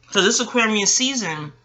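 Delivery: talking through a mouthful of almonds; words round a bite of almonds; chewing while talking. Real, not acted. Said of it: "sorry, I'm eating almonds".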